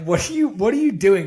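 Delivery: acting out a puzzled challenge to a partner; retold, incredulous questioning; exasperated questioning. Confronts partner in a retold exchange.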